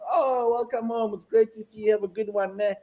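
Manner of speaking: lightly acted, high, friendly greeting; friendly welcoming officer. Airport officer learning the visitor is South African, friendly welcome. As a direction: greet them like a long-lost friend, voice lifted. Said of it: "I'm South African".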